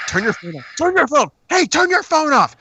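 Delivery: high, loud, repeated scolding; angry audience shout. Retold or imitated. Crowd yelling at a phone user, high loud scold. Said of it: "around us, it was like".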